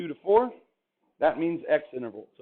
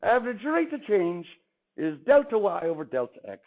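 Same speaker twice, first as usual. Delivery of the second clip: Irish accent; 3 semitones higher than usual. Shown as a demonstration. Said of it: "I'm gonna stop trying to do an accent".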